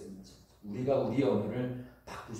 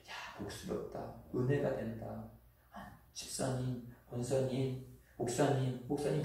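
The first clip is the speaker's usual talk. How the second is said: soft praise; 7 dB quieter than usual. Retold or imitated. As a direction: breathe the praise softly like a blessing. People praising kind words.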